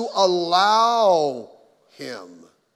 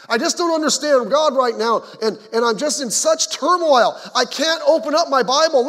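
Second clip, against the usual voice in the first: distressed believer; 4 semitones higher, 6 dB louder than usual. Retold or imitated. Believer quoting inner turmoil.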